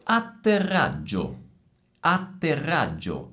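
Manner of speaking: deliberate ATTERRAGGIO, held TT, RR and GG; double consonants. Shown as a demonstration. Teacher shows a festival of doubles, emphatic ATTERRAGGIO. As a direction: dwell on every double in ATTERRAGGIO. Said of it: "c'è un festival di doppie".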